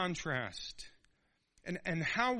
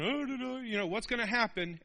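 dumb idiot; 6 semitones higher than usual. Retold or imitated. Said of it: "he's just a dumb little idiot going".

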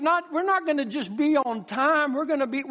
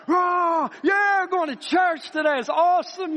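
mock excited fan; 4 semitones higher than usual. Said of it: "And you're like".

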